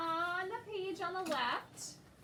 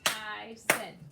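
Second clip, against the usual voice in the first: TYSON split into TY and SON, louder; clapped syllables; 4 semitones lower, 6 dB louder than usual. Shown as a demonstration. Teacher correcting a pupil's syllable count, clapped syllables. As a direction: beat out TYSON in two drawn syllables. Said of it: "and clap it".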